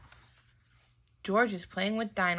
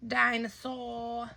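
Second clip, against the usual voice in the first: little George; 3 semitones higher, slower than usual. Acted.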